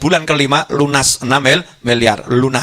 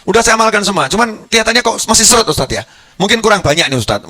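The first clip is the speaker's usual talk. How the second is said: mock pestering student; 3 semitones higher than usual. A student nagging his ustadz for more potent prayers, pestering. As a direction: pester the ustadz for a stronger wirid.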